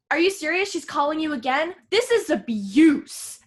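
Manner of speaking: retold incredulous protest, last words dragged and loud; mock outrage. Acts out friend Mark's outrage.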